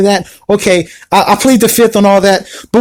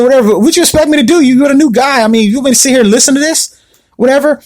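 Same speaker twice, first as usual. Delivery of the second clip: raised, brushing her off; dismissive whatever; 5 semitones higher than usual. Retold or imitated. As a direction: wave her away with a higher voice. Dismissive reply to ex.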